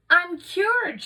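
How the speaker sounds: high, loud, triumphant; joyful shout. Acted. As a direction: burst out with delight. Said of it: "she shouted".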